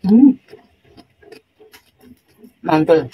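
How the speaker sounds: talking while chewing; muffled hum with food; mouth full chewing. Real, not acted. Seen 3: Bites cucumber at -1.0, then closed-mouth chewing through the labelled words.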